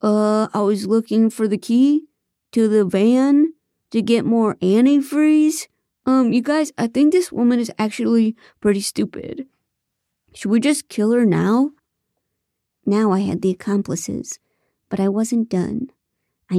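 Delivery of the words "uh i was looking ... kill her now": whiny accomplice. Acted. David N answering captive PI.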